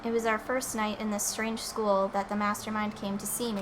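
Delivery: softly voiced Sakura; voiced game character. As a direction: read it as the stoic fighter. Reads game character's lines.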